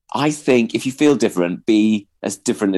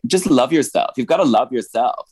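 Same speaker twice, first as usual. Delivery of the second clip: higher-pitched mock pep talk; glib advice; 4 semitones higher than usual. Quoting people who advise self-love, glib imitation. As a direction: toss off the advice glibly, pitched up. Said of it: "a bit glib when people are like".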